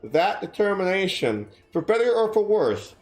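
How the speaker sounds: measured storybook reading voice; story narration. A narrator's reading. Streamer reading her novel aloud to chat, measured narration. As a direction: read it like an audiobook chapter.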